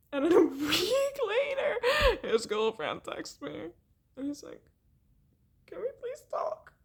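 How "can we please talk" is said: high, breathy whisper; whispered quote. Retold or imitated. Girlfriend asking to talk, a high hushed whisper. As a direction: hush it like a nervous plea.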